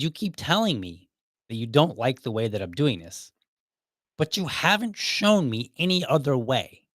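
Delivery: frank complaint, slowing into pointed emphasis. Retold or imitated. Employee confronts manager over missing instructions, very frank. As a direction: lay it out firmly, then slow down. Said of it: "I was very frank with him".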